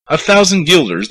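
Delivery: high, incredulous yelp on thousand; a startled mayor balking at the price; shocked disbelief. Acted. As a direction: gasp it out as if robbed. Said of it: "The mayor looked blue".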